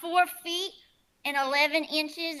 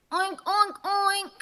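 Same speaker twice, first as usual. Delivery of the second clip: pig audition; 3 semitones higher, slower than usual. Acted. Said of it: "my specialty is animal sounds".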